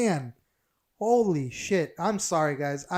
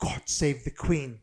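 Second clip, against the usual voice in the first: slow, put-on English accent; mock English accent; slower than usual. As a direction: intone it in a fake English accent. Mocking the British listeners.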